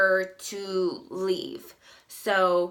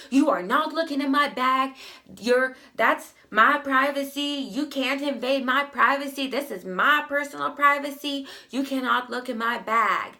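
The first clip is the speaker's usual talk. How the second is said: higher, louder mock outburst; freaking out; 5 semitones higher, 4 dB louder than usual. Customer refusing the manager's bag search, retold in a higher, louder indignant outburst. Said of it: "she freaks out and she's like".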